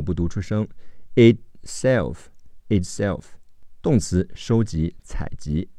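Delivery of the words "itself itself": "itself" with the t in "it" held, not released; unreleased t. Shown as a demonstration. Teacher showing listening form, "itself" with unreleased t. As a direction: stop the t silently before "self" in "itself", slowly. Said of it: "it的t会失去爆破".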